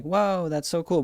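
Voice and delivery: put-on high, slow wide-eyed kid wonder; mock kids' awe. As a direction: gush it like awed schoolkids. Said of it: "everyone was like".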